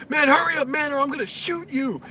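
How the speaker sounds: very high, loud furious scream; threatening yell. Retold or imitated. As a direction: yell a threat at the truck driver.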